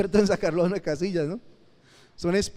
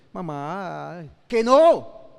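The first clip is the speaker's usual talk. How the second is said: put-on whiny child; 6 dB louder, much slower than usual. Child begging mother, whining.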